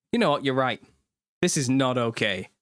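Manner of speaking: firm retold solidarity; mock-indignant agreement. Dad agreeing with his son about the wind, mock indignation. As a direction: side with the child in mock outrage. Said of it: "I agreed with him".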